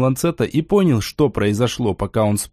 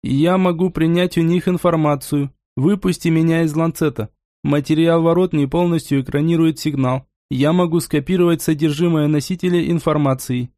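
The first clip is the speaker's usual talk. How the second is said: put-on old speech synthesizer; 3 semitones higher than usual. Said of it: "Он задействовал синтезатор речи".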